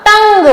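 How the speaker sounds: टंग with a distinct ng closing it; full anusvara sound. Shown as a demonstration. Teacher recalling the bindi lesson, टंग with full ng. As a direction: close टंग firmly on ng. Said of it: "ट पर अंक की बिंदी".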